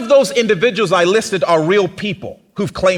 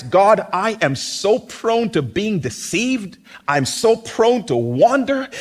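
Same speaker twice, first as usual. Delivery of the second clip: prayer. Acted. Praying for protection from deception.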